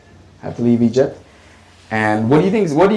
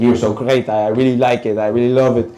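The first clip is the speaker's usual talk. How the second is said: put-on Arab accent; 2 semitones lower than usual. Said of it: "with the thick Arab accent".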